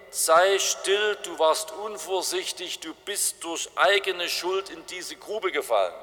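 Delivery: a superior sage scolding from above; Confucius calling down. Acted. Confucius calls down to the man in the pit, scolding and superior. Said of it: "er ruft dir entgegen".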